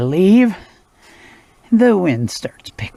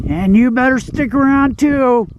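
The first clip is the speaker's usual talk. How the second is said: firm but playful to dog; 7 semitones higher than usual. Real, not acted. Telling dog to stay.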